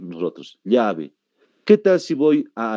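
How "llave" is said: "llave" with a palatal LY sound; Bolivian LL. Shown as a demonstration. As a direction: say "llave" as "lyabe". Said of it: "Así es como decimos".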